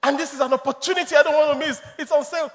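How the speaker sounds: quick, high-pitched sales pitch; eager persuasion. Acted. Wife talking her man into buying shoes, eagerly. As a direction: rush it out, keen not to miss out. Woman urging purchase on phone.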